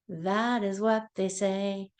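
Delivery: sing-song nursery rhyme voice; reading to a toddler. Acted. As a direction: chant it brightly for little kids. Sing-song animal rhyme for kids.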